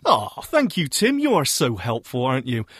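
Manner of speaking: mock-grateful, pitch leaping up then dropping; sarcastic thanks. Host teasing helpful co-host after his tip, sarcastic thanks. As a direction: thank them with teasing, overdone gratitude.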